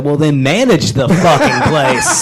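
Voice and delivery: retelling the best line ever, slow and amused; slow laughing punchline. Retold or imitated. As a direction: drag it out slowly through a laugh. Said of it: "he said".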